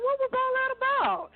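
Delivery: high-pitched retold bewilderment; mock astonished question; baffled reaction. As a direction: imitate puzzled kids, voice way up. Acts out children's puzzled reaction.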